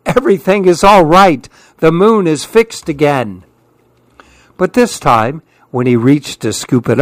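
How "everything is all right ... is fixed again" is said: high, bright call of relief; happy call. Acted. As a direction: announce the good news gladly. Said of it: "called out happily".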